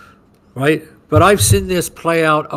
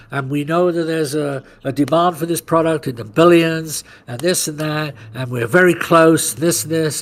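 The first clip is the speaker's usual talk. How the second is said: mock CEO pitch. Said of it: "I'm a company, and I'm gonna say this".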